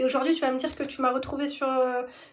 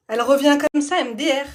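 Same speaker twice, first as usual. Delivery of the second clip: louder, punching each word in disbelief; indignant outburst; 7 dB louder than usual. Real, not acted. Telling her followers about the ex-friend, loud and indignant. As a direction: raise the voice, fed up and indignant.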